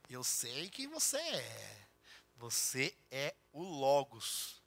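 very soft, slow, hushed words to a newborn; a mother's hushed awe; tender whisper to baby. Retold or imitated. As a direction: murmur it lovingly over the baby.

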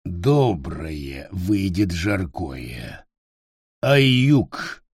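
low, slow, unsure goblin voice; as if the words are foreign to him; slow and hesitant, low creature voice; slow, halting goblin. Acted. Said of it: "Говорил он медленно, неуверенно".

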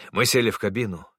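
usual speaking voice

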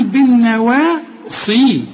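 "بالنواصي" with the sad thick and emphatic, the rest light; slow, emphatic tajweed sad in "بالنواصي"; heavy sad. Shown as a demonstration. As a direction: darken only the sad of "بالنواصي". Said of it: "الصاد هي المفخمة".

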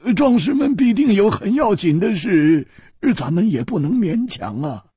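声音略高的年轻女子，婉转地推辞; 柔和地拒绝壮士们; 公主的声音. Acted. 公主说话. (略高的公主嗓音)

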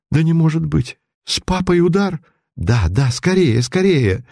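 rising panicked pleading; frantic, rushing to her father; alarmed cry. A narrator's reading. Daughter panicking over her stricken father.

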